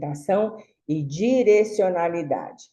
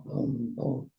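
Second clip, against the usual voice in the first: soft low imitated engine rumble; lightly mimicked moto engine; motorbike noise; 6 semitones lower, 9 dB quieter than usual. Shown as a demonstration. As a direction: hum a quiet motorbike sound for the sign. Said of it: "Complementa, é, o barulho ... que eu faço da moto".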